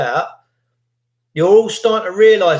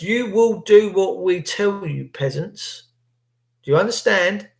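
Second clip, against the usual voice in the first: mock bossy authority; 3 semitones higher than usual. Mocking the authorities' commands.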